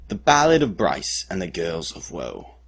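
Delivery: theatrical balladeer announcing a title. Shown as a demonstration. Storyteller presents the dramatic retelling of the cliff rescue, ballad voice. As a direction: declaim it as a grand ballad title. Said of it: "in my best ballad voice".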